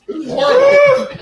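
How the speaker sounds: very high, laughing through pain. Real, not acted. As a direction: squeal it while laughing. Chip burning, laughing in pain.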